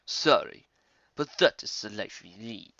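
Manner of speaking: low, calm villain resignation; understated calm villain. Acted. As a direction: shrug it off calmly. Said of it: "Red Claw said calmly".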